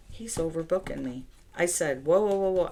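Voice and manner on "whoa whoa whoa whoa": louder, higher run of whoa; retold alarmed protest. Telling her uncle she can't take him, loud protest. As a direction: stop him mid-request, alarmed. Refusing uncle's double-booked request.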